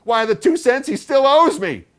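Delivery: very high, loud, stressing owes; indignant aunt. A narrator's reading. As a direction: certain she's owed.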